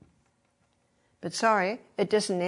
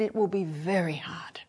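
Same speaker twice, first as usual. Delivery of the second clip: soft agreement; 2 semitones lower, 3 dB quieter than usual. Retold or imitated. Agreeing gently with the girl.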